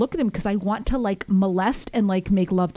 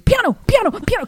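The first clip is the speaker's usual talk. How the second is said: high, louder pleading Italian word; retold plea; 13 semitones higher, 7 dB louder than usual. Rider on the motorcycle pleading with the driver in a high retold cry.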